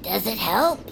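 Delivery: low, dry whisper; whispered deadpan. Acted. Hatch dryly asking the meditating Noah, whispered. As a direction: mutter it under the breath.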